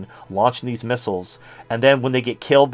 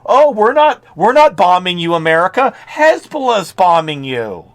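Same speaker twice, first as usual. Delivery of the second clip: mock innocent denial; 5 semitones higher, 5 dB louder than usual.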